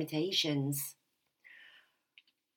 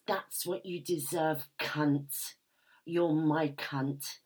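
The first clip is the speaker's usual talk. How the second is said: Master's voice. Acted. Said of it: "and says".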